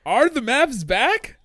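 stretched out, rising; slow drawn-out question. Real, not acted. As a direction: draw out each word. Cohost echoes slowly.

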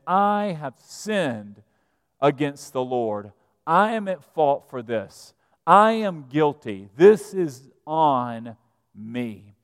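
slow, heavy-hearted admission of guilt; slow confession. Retold or imitated. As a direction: voice David owning his sin slowly and humbly. David confesses his sin.

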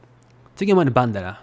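quick Mikawa Japanese, "だろ" said as "dara"; Mikawa dialect. Shown as a demonstration. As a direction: say it fast in hometown Mikawa dialect. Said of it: "Mikawa dialect is".

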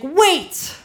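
a sudden high, loud cry with a laugh; sudden wait. Retold or imitated. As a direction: burst out laughing to stop her. Friend stops the purchase.

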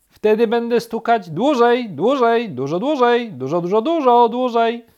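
high, loud, repetitive chatter; woodpecker shouting back. A narrator's reading. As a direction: yell back and keep rattling on. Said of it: "odkrzyknął dzięcioł, któremu trudno było przerwać".

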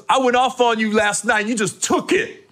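imitated comedian, rising in pitch; mock admiration in another comic's voice; Tracy Morgan. Comedian praising friend who took his rant, imitated. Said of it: "He goes".

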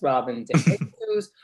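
"de Jesus" slowly, with the accent off the final syllable; mispronounced surname. Shown as a demonstration. Guest listing wrong versions, "Jesus" not stressed on its end. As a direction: give "Jesus" the wrong stress, away from "sus". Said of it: "as opposed to Robin de Jesus".

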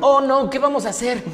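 mock helplessness. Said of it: "Así de".

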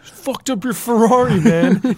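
high hammed-up movie line; mock the character's taunt; movie character quote.

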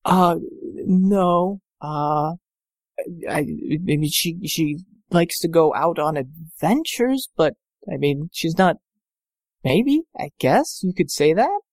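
put-on slow, hesitant girlish voice; shy young woman's voice; female voice. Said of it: "I can only do one female voice".

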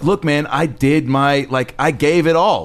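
slow, worn-out "I gave it all"; weary retiree. Retold or imitated. Obama tired of it all, slowly checking out. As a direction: drag it out like a tired man quitting.

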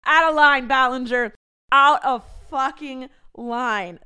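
loud, mock-stern scolding of her own younger self. Real, not acted. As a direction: tell yourself off loudly, hammed-up.

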